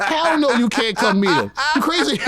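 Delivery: high, loud, laughing no; laughing refusal. Retold or imitated. He refuses to let his ex meet a famous rapper, laughing high and loud. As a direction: laugh her request off in disbelief.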